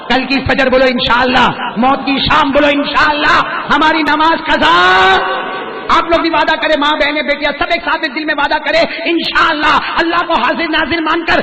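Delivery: high, loud rallying sermon with call and response; preaching at full force. Acted. Preacher rallies mothers and sisters to pledge aloud. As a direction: rouse the crowd to a loud vow.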